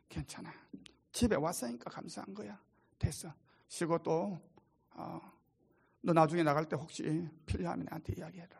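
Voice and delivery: near-hushed, soft comforting; calm her like a frightened child; father hugging his daughter at the door, soothing; soothing reassurance. Retold or imitated.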